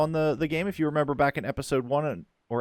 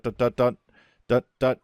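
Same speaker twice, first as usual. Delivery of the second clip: humming tame music; 4 dB louder than usual. Retold or imitated. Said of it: "the crazy tame music".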